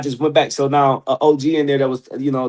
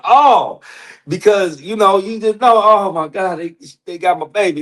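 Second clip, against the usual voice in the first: retold panic; 6 semitones higher, 3 dB louder than usual. Panicked call about his girlfriend.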